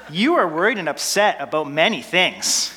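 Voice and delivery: lightly patronizing, gently talking down; a touch of weary condescension; condescending Jesus. Retold or imitated. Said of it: "I put on this kind of condescending voice for Jesus".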